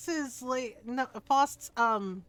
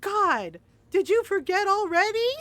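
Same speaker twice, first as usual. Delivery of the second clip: louder, rising disbelief, retold; mock-exasperated, pitched up on the question; exasperated sigh; 5 semitones higher, 6 dB louder than usual. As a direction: imitate someone fed up with a forgetful friend. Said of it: "just sighs and says".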